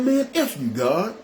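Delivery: high-pitched jump on the curse, then dropping; retold angry outburst. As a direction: retell going off on God, without shouting. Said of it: "I just started going off".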